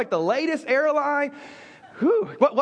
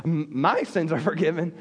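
bragging; 8 semitones lower than usual. Shown as a demonstration. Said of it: "I almost feel like, hey, I'm bragging".

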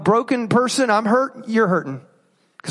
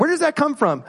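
a quicker run through the same question; sped up; 6 semitones higher than usual. Shown as a demonstration. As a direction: say it faster, moving on. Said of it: "We'll speed it up a little bit".

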